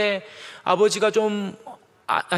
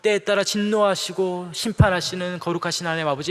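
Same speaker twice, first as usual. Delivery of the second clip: elder's prayer. Retold or imitated. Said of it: "이렇게 부르시는데".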